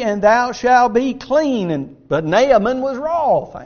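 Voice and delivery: measured, rising scripture read; solemn King James reading. Acted. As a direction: read the verses out with weight. Reads scripture aloud.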